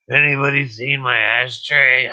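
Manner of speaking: hollering for the ashtray, country style. Pretend. Asking the chat in a country voice. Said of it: "that's my country voice".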